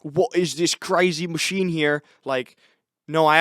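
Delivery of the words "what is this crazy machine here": slow, put-on British accent; mock British accent. British musician puzzles over a cappuccino machine, mock British accent. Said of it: "he's British".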